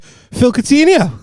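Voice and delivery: high, slow calling his name; drawn-out high name call; starstruck call. Retold or imitated. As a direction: call after him like an excited fan. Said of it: "I was like".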